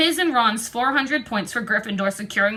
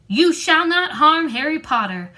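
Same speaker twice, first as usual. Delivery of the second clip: high elf voice, raised and firm; an elf standing up to his master; Dobby shouting; 6 semitones higher, 4 dB louder than usual. A narrator's reading. Dobby shouting at Malfoy to protect Harry, high and firm. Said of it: "But Dobby shouted".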